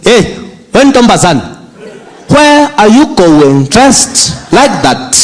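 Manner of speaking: slow, stern father questioning; a hint of a stern dad; strict dad. Father scolding daughter.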